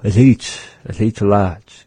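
athi lat with a fall on athi; answer demo. Shown as a demonstration. Teacher answering the example question. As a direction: model the reply calmly. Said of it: "Yes, I am here".

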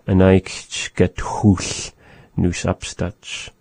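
"An eich get tchull nus upstach" said very slowly, word by word; slow model phrase. Shown as a demonstration. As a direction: spell it out slowly for learners. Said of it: "we do the same thing with the phrase".

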